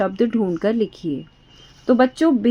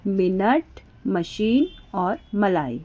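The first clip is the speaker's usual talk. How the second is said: slow read-aloud; 4 dB quieter, slower than usual. Shown as a demonstration. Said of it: "चुपचाप से पढ़ लेना है मन ही मन".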